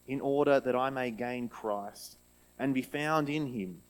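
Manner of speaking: measured, solemn Bible reading; scripture reading. Acted. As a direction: read the passage with weight. Reads Bible passage aloud.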